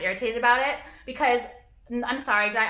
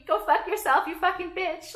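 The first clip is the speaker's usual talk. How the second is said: inner fury; 8 semitones higher than usual. Retold or imitated. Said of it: "even though I'm thinking".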